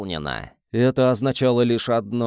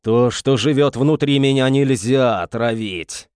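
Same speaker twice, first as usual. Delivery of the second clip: eldritch horror; 5 dB louder than usual. Acted. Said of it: "нечеловеческим голосом".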